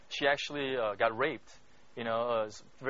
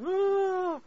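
imitated weeping wail; 4 dB louder than usual. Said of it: "she's just weeping".

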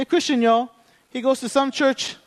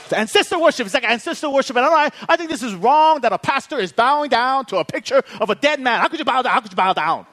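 higher-pitched, hammed-up outrage; mock indignant accusation; 3 semitones higher, faster than usual. Gym guy accusing pastor of idolatry, mock indignant. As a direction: imitate a scandalized accuser, repeating yourself.

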